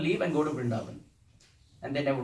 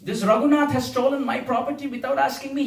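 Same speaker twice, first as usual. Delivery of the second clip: raised, louder mock-accusing proclamation; retold announcement; 8 semitones higher, 6 dB louder than usual. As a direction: proclaim the theft to a crowd. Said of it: "he announced".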